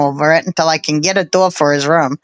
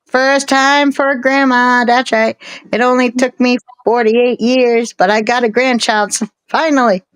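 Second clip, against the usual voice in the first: excited; 6 semitones higher than usual. Real, not acted. Happy about first grandchild.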